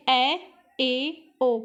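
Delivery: ए said wide, close to ऐ; teacher showing the half-open vowels; open vowel demo. Shown as a demonstration. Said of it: "अर्धसंवृत की अपेक्षा इसके अंदर हमें मुंह ज़्यादा खोलना पड़ता है".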